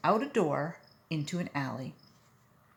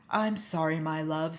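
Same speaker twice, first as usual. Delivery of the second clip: humble. Acted. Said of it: "in a humble tone".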